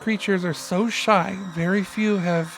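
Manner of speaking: measured documentary narration; nature documentary. Acted. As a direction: read it like a wildlife film. Reads creature lore aloud.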